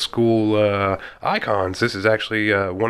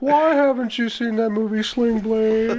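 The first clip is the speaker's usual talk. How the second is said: incredulous; 12 semitones higher, slower than usual. Real, not acted. Friend shocked at host.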